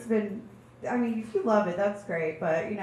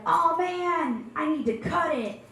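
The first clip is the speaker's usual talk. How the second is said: exasperated groan; 6 semitones higher, slower than usual. Retold or imitated. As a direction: sound truly overwhelmed by it. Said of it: "when you're like".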